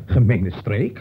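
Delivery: a scoffing chuckle at the absurd charge; incredulous laugh. Acted. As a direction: laugh it off in disbelief, slowly. Scoffs at the accusation.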